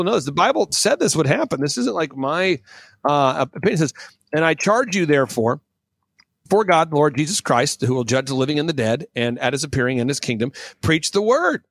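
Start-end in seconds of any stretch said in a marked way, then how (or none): 4.3-11.6 theatrical pulpit-style recitation; scripture reading. Acted. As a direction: declaim the verses, punching and stretching key words. Reads scripture aloud with preaching flourishes.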